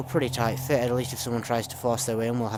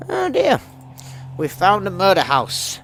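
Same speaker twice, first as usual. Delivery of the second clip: much higher, louder mock alarm; mock dismay; 10 semitones higher, 10 dB louder than usual. Real, not acted. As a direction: squeal it in fake shock. Finds a murder house.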